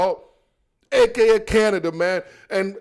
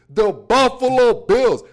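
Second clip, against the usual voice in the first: slow African-accented team announcement; playful African accent, higher; 5 semitones higher, 4 dB louder, slower than usual. Shown as a demonstration. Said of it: "I got the little African accent, so I said Buffalo".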